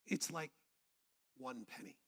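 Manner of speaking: deep, soft, unhurried divine voice; God. Retold or imitated. God answering a question about money, deep voice. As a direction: drop low and pause before the punchline. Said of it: "in a deep voice".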